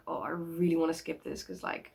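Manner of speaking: fading to a soft near-whisper; reluctant, ending in a hushed breath; retold reluctance. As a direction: trail off as if you can't bear it. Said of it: "I was like".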